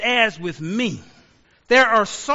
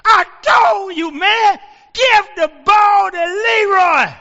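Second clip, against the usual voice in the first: slow, high and loud shouted rage; furious coach; 8 semitones higher, 7 dB louder, slower than usual. Retold or imitated. Coach stomping on the sidelines yelling at the quarterback, slow loud shout. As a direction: bellow it while stomping the sideline. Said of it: "The coach is just stomping on the sidelines".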